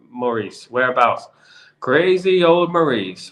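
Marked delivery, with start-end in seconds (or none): 1.8-3.3 Beauty and the Beast villager. Retold or imitated. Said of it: "Beauty and the Beast, Maurice".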